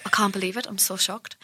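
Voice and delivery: lightly voiced, deadpan pop star; a singer. Showing off a celebrity impression, lightly imitated deadpan shock. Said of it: "That's my pop star".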